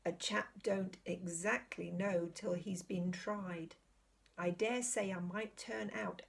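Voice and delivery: slow, deliberate country cabbie; very slowly. Acted. Cabbie pondering his answer to Aslan, very slowly. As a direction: weigh each word before saying it. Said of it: "said the cabbie very slowly".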